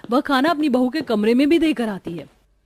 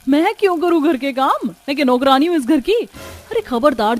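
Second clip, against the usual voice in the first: indignant retort; 4 semitones higher, 4 dB louder than usual. Acted. Bride snaps at sisters-in-law.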